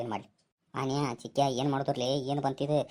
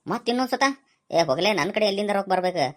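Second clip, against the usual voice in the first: indignant surprise; 5 semitones higher, 4 dB louder than usual. Acted. Outraged at another tea round.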